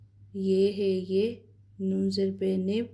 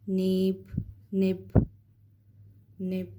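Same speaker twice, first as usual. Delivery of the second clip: निब said quick and crisp; fast reading; slower than usual. Shown as a demonstration. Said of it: "इसको fast में पढ़ना है". (तेज़ी से निब)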